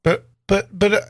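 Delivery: put-on protesting young boy. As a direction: plead like a little boy at play.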